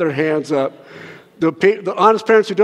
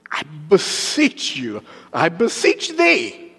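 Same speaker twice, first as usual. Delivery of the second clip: put-on slow, lightly pious old-style plea; mock super spiritual; slower than usual. Preacher teasing churchy language, mildly pious and slow. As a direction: draw it out like a holy-sounding prayer. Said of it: "You sound super spiritual".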